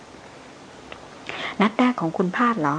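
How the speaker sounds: slow, panting question; breathless question. A narrator's reading. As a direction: ask while catching your breath. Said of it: "ถามกระหืดกระหอบ". (ถามกระหืดกระหอบ)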